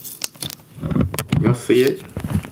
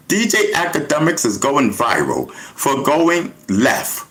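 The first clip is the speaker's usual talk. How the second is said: news anchor read. Shown as a demonstration. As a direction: deliver it like a TV anchor. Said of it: "I am bringing the news".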